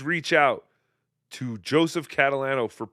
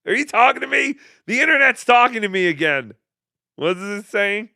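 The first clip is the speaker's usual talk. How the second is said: high, loud baffled squeak; mock startled; 8 semitones higher, 7 dB louder than usual. Host pretending the internet talks to him, high and startled. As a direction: pretend a voice from nowhere spooked you.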